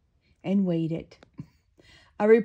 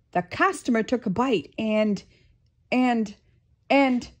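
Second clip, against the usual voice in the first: faltering voice; 4 semitones higher, 5 dB louder than usual. Acted. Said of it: "Mister Krabs couldn't go on".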